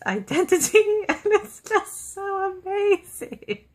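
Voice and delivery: rising into tearful, choked-up gushing; getting so moved your voice starts to break; gushing about a favourite film scene until the tears come; tearing up. Retold or imitated. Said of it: "Are you crying?".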